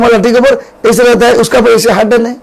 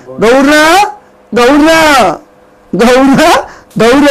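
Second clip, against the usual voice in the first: loving call, a bit higher; affectionate call; 3 semitones higher, much slower than usual. Shown as a demonstration. Parent fondly calling the child by nickname, a bit higher. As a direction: call the child fondly by his pet name. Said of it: "ऐसे बोलेगा".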